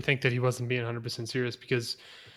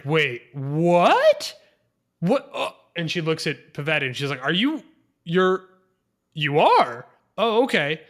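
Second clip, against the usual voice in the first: mock surprise; 5 dB louder than usual. Queen realising her daughter is pregnant, mock-shocked. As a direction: play the queen caught off guard.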